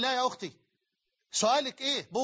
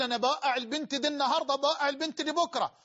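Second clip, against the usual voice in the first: mocking a boasting womanizer, a bit higher; lightly voiced bragging seducer; mock boaster; 4 semitones higher than usual. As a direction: sneer out a playboy's brag. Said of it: "عشان تقول".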